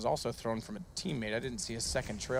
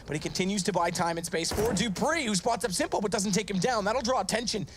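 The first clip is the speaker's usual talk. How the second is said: excited; 5 semitones higher than usual. Real, not acted. Round climax, caster builds hype.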